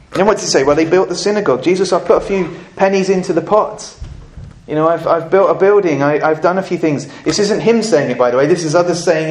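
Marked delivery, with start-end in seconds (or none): 0.6-7.1 mock list of deeds. Elders listing deeds, fast.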